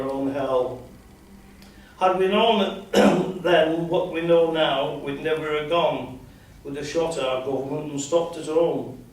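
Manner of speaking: measured, declaiming reading of a war poem; poem recitation. Acted. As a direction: recite it like a veteran's memorial poem.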